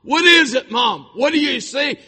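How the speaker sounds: high, loud pleading questions; daughter's urgent cry. Retold or imitated. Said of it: "my daughter said".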